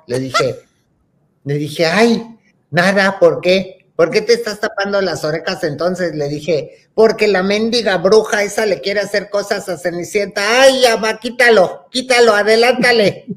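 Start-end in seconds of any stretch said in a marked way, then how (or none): 1.9-6.1 louder, pitched-up back-and-forth; insistent retold questioning. Retelling mom asking why her ears are covered, insistent. Retold exchange with alarmed mother. 6.9-13.3 high, loud frantic begging; panicky child pleading. Retold or imitated. Acting her child self begging mom to skip the witch, panicky.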